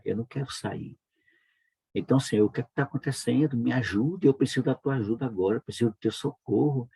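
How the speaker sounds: urgent prayer to God, mildly imitated; a touch of desperation in a retold prayer; retold tearful plea. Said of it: "E eu, eu chorando".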